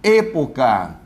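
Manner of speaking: "Época" with closed vowels, Spanish style. Shown as a demonstration. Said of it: "A pronúncia correta é América, época".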